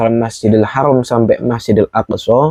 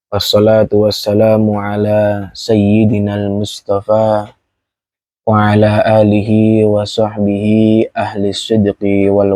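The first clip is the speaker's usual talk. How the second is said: formal Arabic recitation. Acted. Preacher opening the sermon with praise and verse, formal recitation.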